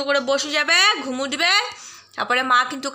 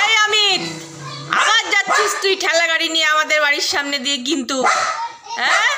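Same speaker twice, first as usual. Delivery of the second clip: mock scolding; 3 semitones higher than usual. Scolding Amit on dog's behalf.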